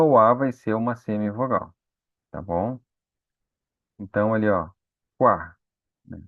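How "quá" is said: quá with a faint u and a strong a; syllable demo. Shown as a demonstration. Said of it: "o u mais fraquinho e o a mais forte".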